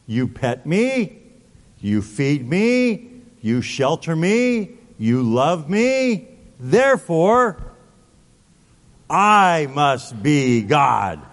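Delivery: a cat that takes the worship as its due; I must be God, slow and pleased with itself; smug cat. Pretend. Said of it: "A cat says".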